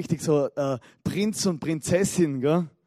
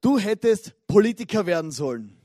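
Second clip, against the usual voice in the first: louder, snapping at her husband; angry wife; 7 dB louder than usual. Retold or imitated. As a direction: hurl it at him in a quarrel. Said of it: "wütend". (wütend, laut zum Ehemann)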